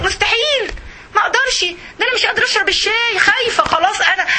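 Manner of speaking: high, fast, panicky refusal; mock terrified refusal. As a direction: play the scared woman who won't budge. (رفض مذعور بصوت عال وسريع)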